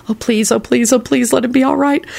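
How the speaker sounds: high-pitched, pleading chant that keeps climbing; frantic prayer. A narrator's reading. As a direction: plead over and over, pitch rising. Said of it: "said a frantic prayer".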